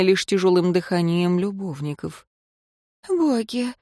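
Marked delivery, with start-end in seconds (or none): 3.1-3.7 high exhaled word; breathed out. A narrator's reading. Woman exhaling after love, breathy. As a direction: sigh it out spent. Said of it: "выдохнула Ирейн".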